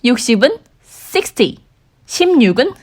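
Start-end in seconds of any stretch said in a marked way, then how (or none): 0.8-1.6 "sixty" with the weight on the first syllable, SIX-ty, said slowly; stress on SIX. Shown as a demonstration. Teacher modelling sixty against sixteen, first syllable stressed. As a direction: hit six in "sixty", ty light. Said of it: "육십과 십육도 마찬가지예요".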